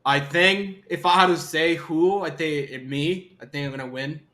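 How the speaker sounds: slow, earnest hero declaration; earnest determined anime hero. Pretend. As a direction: declare victory like a shonen hero. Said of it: "I'm gonna sound like an anime protagonist".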